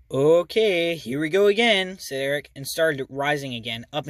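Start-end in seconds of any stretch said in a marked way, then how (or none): 0.1-2.0 loud playful warning; teasing, louder and higher; gleeful. Acted. Eric teasing before flying again.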